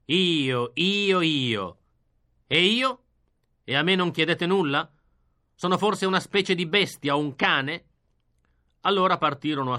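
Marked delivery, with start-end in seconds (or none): 0.0-7.8 louder, indignant outcry; a raised, indignant cry. Acted. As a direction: demand to be heard. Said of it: "Così scricciai".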